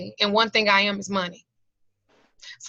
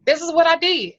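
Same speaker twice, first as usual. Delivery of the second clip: fighting back tears; 5 semitones higher than usual. Real, not acted. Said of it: "and I'm trying not to cry".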